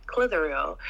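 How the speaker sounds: put-on low Clitheroe accent, tried out; attempted Clitheroe accent. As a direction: have a tentative go at a Lancashire accent. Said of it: "they have a gorgeous, uh, accent".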